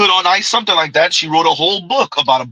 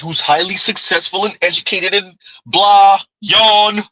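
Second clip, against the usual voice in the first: mock boredom; 3 semitones higher than usual. Host waves off women's credentials, mock boredom. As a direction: dismiss it all as tedious. Mocks a boring list of credentials.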